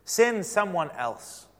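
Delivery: slow, drawn-out plea; pleading. Acted. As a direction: beg slowly to be let off. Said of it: "Moses pleaded".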